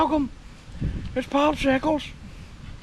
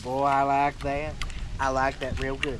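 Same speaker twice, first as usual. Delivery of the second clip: pig's voice; 5 semitones lower than usual. Retold or imitated. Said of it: "He said".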